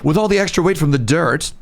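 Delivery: put-on a light posh accent that slips toward confused and out of breath; lightly snooty voice losing its grip; bougie accent. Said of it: "I don't know what happened to my accent there".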